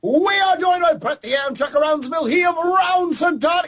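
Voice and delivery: hammy noir detective announcer; gumshoe voice. Acted. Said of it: "do it in the gumshoe voice".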